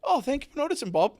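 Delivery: high, playful fake British accent; fake British reply. Co-host joining the British accent bit. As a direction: answer in a hammed-up British accent. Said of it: "I am the worst accent person".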